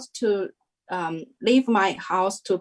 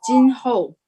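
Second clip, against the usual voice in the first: calling out a name; 4 semitones higher, 6 dB louder than usual. Retold or imitated. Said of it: "started to call out my name".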